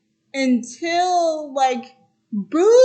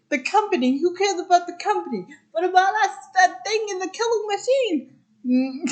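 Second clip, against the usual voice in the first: rising into higher-pitched mock alarm; mock indignant retort; 6 semitones higher, faster than usual. Mike answering Sully about the company, mildly hammed-up indignation. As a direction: throw it back in pretend outrage.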